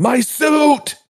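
very high, shrill yelled outburst. Voicing a character whose suit just tore apart: Rel yelling. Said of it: "As Rel yells".

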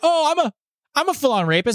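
very high-pitched, stumbling, stammering character voice. Retelling a scene from It's Always Sunny: Charlie impression. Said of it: "Charlie goes on a date ... He's like".

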